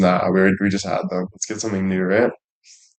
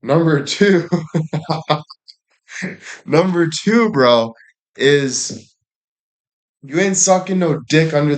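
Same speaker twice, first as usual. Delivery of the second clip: higher, rising "number two" in disbelief; laugh, then restart the point just as high; mock indignant; 6 semitones higher than usual. Real, not acted. Listing points in mock outrage.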